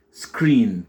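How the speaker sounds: "Screen" with a long, drawn-out ee; slow demo of English "Screen". Shown as a demonstration. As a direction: stretch the vowel in "Screen" slowly. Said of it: "c'est un I long".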